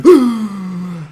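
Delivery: loud, high gasp of joy; exaggerated switch into pretend delight; hammed-up ecstatic intake; mock delighted gasp. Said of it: "absolutely deliriously happy".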